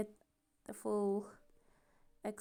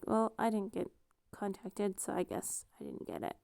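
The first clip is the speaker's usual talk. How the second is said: trailing into a whispered sigh; resigned whisper; 8 dB quieter than usual. Retold or imitated. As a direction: let it fade to a breathy whisper. Quoting her own resigned thought.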